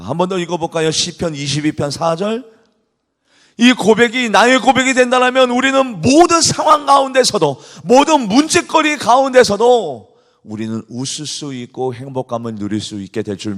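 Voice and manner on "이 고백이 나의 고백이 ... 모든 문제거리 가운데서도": loud, high, fervent preaching; preaching at full force. Acted. Pastor rousing the congregation, loud fervent preaching. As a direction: proclaim it to the whole church.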